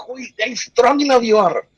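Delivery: high, odd wolf voice; wolf speaking. Acted. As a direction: growl it out like a talking wolf. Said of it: "the wolf is like".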